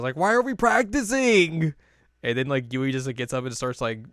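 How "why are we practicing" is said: high, loud, drawn-out wail; mock freak-out. New member freaks out at the club, hammed-up wail. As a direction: lose it in comic exasperation. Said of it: "like, freaks out".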